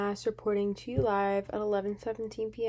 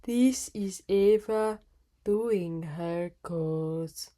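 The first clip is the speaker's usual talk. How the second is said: slow, lower, drawn-out cartoon narrator intro; SpongeBob narrator; 3 semitones lower, much slower than usual. Shown as a demonstration. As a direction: read the title like the SpongeBob narrator. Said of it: "Did that sound like three hours later?".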